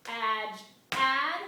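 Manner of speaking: loud two-beat count, "add" punched hardest; accent on second syllable. Shown as a demonstration. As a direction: split "Ad-, add" and hit "add". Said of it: "step on the second syllable".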